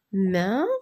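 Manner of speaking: "Maintenant" as main, te, nant with long pauses; widely separated syllables. Shown as a demonstration. Teacher forming words from syllables, widely separated syllables. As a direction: sound out "Maintenant", waiting after each syllable. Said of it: "Je forme des mots avec des syllabes".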